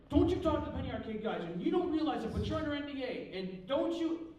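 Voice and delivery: high, loud imitated tirade; angry yelling. Company man warns cartoonist off the artists, angry yelling. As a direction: berate him down the phone. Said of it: "he's yelling at me".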